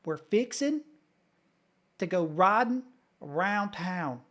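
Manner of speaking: fixin' to go ridin', lightly Kentucky; Eastern Kentucky accent. Shown as a demonstration. Streamer shows chat his old Kentucky accent, lightly exaggerated. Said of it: "as close as I can get anymore".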